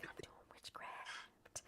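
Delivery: slow hushed whisper; awed whisper. Retold or imitated. Husband repeating that he does witchcraft, awed whisper. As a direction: breathe it out in wonder.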